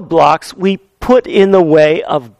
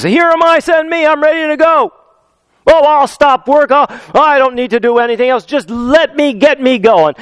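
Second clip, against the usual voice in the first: much higher, bright-eyed volunteer; eager Isaiah; 6 semitones higher than usual. Retold or imitated. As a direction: jump at the chance, ready to go.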